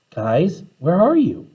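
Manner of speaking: shrieked. Acted. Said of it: "she shrieked".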